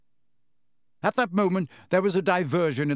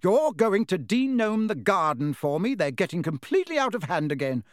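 scolding; 4 semitones higher than usual. Acted. Mother scolding her sons.

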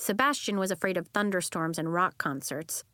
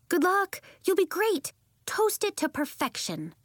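much higher, louder cheer; calling out; 10 semitones higher, 3 dB louder than usual. Acted. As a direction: call encouragement across. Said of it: "Nori called".

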